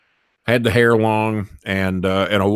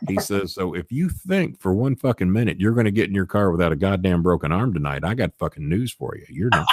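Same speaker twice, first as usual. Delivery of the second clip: menacing threat; 2 semitones lower than usual. Retold or imitated. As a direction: threaten him coldly. O'Hare's low menacing threat.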